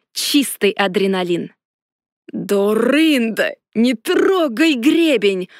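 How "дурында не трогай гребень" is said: yelling dragon. A narrator's reading. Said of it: "орал этот ящер".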